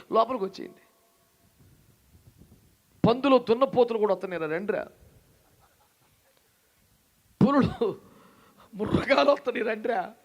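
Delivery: loud, urgent plea to come aboard; Noah pleading. Retold or imitated. Noah begging the people to enter the ark, loud plea. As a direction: call the crowd in like the old prophet. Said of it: "చెప్పారంటే పెద్ద ఆయన".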